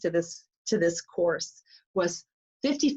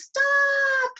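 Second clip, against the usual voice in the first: high sudden shriek; screamed stop. Retold or imitated. Stopping the countdown at the edge in a sudden high scream. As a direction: yell it like panic at the edge. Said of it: "Candace screams".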